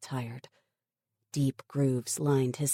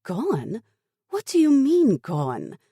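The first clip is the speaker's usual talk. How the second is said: much higher, loud disbelief; shocked, grab the word gone; aghast; 9 semitones higher, 8 dB louder than usual. A narrator's reading.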